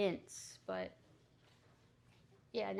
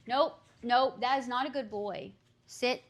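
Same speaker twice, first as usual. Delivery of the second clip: scolding a dog; 2 semitones higher, 4 dB louder than usual. Real, not acted. Scolding the dogs.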